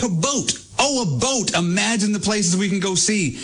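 high, marveling mock excitement at a boat; awed wonder. Host imitating old-time people amazed by a boat, pitched high. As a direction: gasp at the boat like it's a miracle. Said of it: "they were like".

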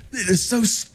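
imitating a wife laughing at her husband. Wife mocking husband's group dilemma, laughing. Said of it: "she starts laughing, and she goes".

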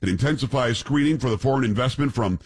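reading a headline aloud; news read. Acted. Reads out a news story.

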